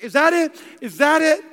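a hint of an impatient sightseer asking; eager wife. Wife looking for the monument, lightly imitated eagerness. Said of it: "she's looking for everything".

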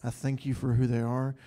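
steady, earnest prayer voice; heartfelt prayer. Real, not acted. Leader prays over the pastor couple in front of the church, earnest.

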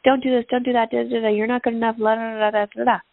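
mild mock scolding of someone, fading into la la la; mock nagging. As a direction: rattle off the nagging as a hammed-up blah blah. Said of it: "constantly yelling at someone else".

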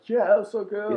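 Evan Rachel Wood impression. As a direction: gush it like a dreamy actress. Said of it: "And Evan Rachel was like".

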